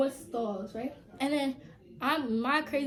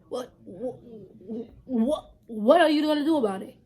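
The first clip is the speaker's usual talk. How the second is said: angry challenge; 7 dB louder than usual. Retold or imitated. Squaring up to the girl who told her off, angry dare.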